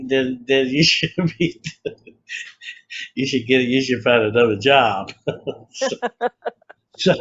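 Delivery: breaking into laughter mid-sentence; real chuckle through the words; laughing. Real, not acted. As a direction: crack up at your own joke while talking. Cracks up at own joke.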